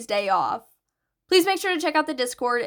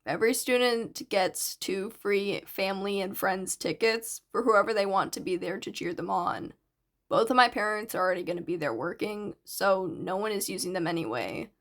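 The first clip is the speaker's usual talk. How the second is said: a hint of a lower, quieter teen boy; lightly voiced shy boy; 4 semitones lower, 4 dB quieter than usual. Narrator voices Hitoshi, lower.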